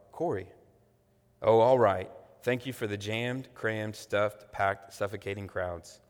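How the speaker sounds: dramatic book reading aloud to the congregation; sermon reading of a book passage; story reading. A narrator's reading. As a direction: read it like a storyteller, voicing the sisters.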